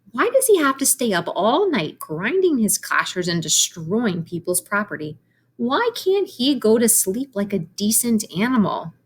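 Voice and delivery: a hint of an annoyed young pig complaining; grumpy pig. Voices Wilbur's grumbling thought.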